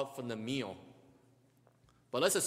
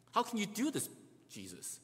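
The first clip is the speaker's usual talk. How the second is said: high-pitched incredulous question; shocked disbelief; 4 semitones higher than usual. Retold or imitated. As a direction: ask it in stunned disbelief. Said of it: "Peter was probably just shocked".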